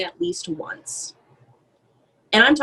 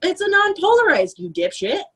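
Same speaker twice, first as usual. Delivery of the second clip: high mocking ditzy voice; 8 semitones higher than usual. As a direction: play dumb in a high voice.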